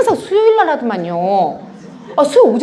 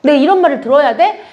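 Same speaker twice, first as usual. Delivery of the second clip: mildly indignant, rising question; retold indignation; 3 semitones higher, 3 dB louder than usual. Church speaker reliving her hurt at gossip, indignant. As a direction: protest an unfair insult, a little higher. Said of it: "이런 생각을 하고 펑펑 울었거든요".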